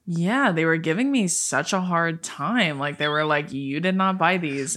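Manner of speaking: lightly imitated monotone, slightly subdued; understated impression of a monotone assistant; Bella. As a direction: drag it out a little, deadpan. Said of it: "It's very monotone".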